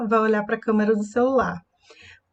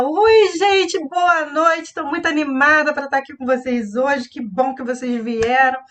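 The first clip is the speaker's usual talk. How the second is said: very happy greeting; 3 semitones higher than usual. Shown as a demonstration. Teacher greeting an evening audience, very happy. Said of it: "estou muito alegre".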